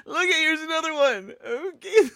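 words squeezed out through laughter; laughing. Real, not acted. Host shows viewers another photo, laughing hard.

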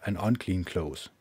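normal talking voice

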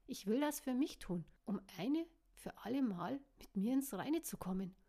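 energetic. Acted. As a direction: cut him off with force. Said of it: "unterbrach ihn energisch".

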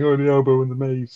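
retold line said through a light chuckle; mock laughing quote. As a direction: imitate him laughing as he repeats it. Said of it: "and he starts laughing".

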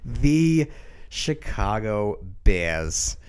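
put-on slow, light Minnesota accent; a hint of Minnesota vowels, slowly. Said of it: "I was doing a Minnesota accent there".

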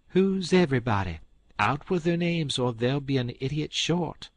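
high, loud threatening demand; threatening fury. Acted. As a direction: threaten him outright. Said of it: "her eyes snapped".

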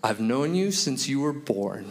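earnest reassurance. Retold or imitated. Nine-year-old reassuring his little friend Brennan, earnest and gentle. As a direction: imitate a tender, serious reply.

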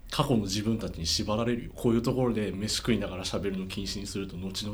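talking while eating; words round a bite of bread; mouth full. Real, not acted. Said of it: "ランチパック食べながら読むよ。". (食べながら話す声)

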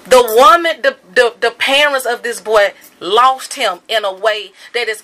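loud outraged restart, then settling; loud outrage. Real, not acted. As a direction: burst out loud, then push on. Angry rant about grieving parents.

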